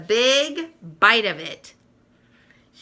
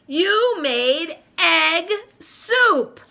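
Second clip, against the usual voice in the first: higher, slow, dismayed exclamation; shocked high lament; crying out; 9 semitones higher, 4 dB louder, much slower than usual. Acted. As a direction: wail it out in disbelief. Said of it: "she cries".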